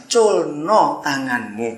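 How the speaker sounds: slow, gentle command; angel's order. Acted. Preacher voices the little angel's slow order to let go.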